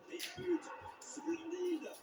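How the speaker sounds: loud goal call; excited sports commentary. Acted. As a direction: shout the goal with joy. Goal call in football game.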